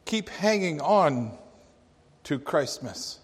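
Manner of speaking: put-on cashier's parting words in a Slavic accent. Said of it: "this very thick Slavic accent".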